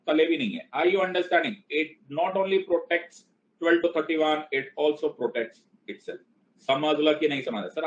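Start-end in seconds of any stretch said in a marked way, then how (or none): 1.7-6.2 slow emphatic explaining. Shown as a demonstration. Teacher stressing the key point.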